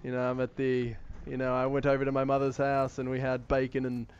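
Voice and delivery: casual British interview voice; relaxed, conversational British impression; Bear Grylls. Shown as a demonstration. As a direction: chat like a British adventurer being interviewed. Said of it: "if you talk like this, you know, you kinda sound like him when he's getting his interview done".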